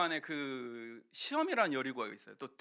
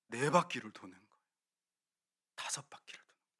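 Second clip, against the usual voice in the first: hushed suspense; 8 semitones lower, 8 dB quieter, faster than usual. Acted. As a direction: drop to a near whisper, low and tense. Building suspense in the story. (숨죽인 속삭임으로 긴장감 있게)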